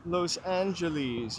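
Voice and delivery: put-on slow, old-Hollywood mid-Atlantic accent. Shown as a demonstration. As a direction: drawl it like a 1940s mid-Atlantic star. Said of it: "mid-Atlantic accent that people had".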